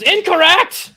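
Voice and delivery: high, loud hollering; shouted across bridge. Acted. Bridge keeper to party across the bridge, shouting. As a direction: yell it to someone far away. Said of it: "being shouted at you from across the bridge".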